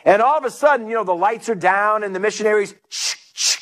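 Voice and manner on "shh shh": short, sharp double shh; imitated shushing noise. Preacher mimicking a sound from the missionary story, short hissed shushes. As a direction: hiss two quick shushes.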